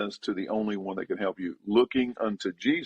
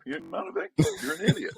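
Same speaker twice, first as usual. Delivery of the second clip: emphatic rebuke. Real, not acted. Pastor scolding self-pitying sinners.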